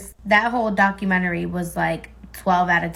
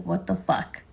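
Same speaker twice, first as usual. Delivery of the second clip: whispered aside; 3 semitones lower, 8 dB quieter than usual. Retold or imitated. Retold pissed reaction.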